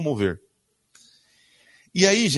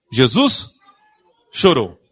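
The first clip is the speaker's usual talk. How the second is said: "Jesus" and "chorou" louder, split by a pause; weighty verse reading; 4 semitones lower, 6 dB louder, slower than usual. Acted. Preacher reading the key verse to the congregation, weighty and paused. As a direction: let each word of "Jesus chorou" land alone, louder.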